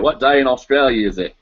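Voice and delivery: badly faked Australian accent; jokey, broad attempt at Australian; terrible Australian accent. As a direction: put on a bad Aussie accent. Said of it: "That was a terrible Australian accent".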